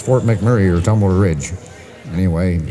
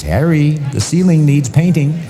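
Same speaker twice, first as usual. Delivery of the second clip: high, carrying wife voice; Jewish girl; 8 semitones higher, 4 dB louder than usual. Acted. Jewish girl to Harry after making love, high matter-of-fact voice. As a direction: announce it high, calling the partner by name. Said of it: "The Jewish girl says".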